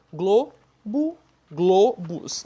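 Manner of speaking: "globo, globos" split into glo-bo, glo-bus; same closed O. Shown as a demonstration. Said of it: "Não muda".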